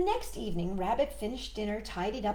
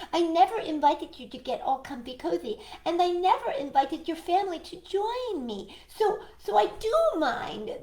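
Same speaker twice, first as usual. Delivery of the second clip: high firm rabbit voice; 9 semitones higher, 4 dB louder than usual. Acted. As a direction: state it plainly and firmly.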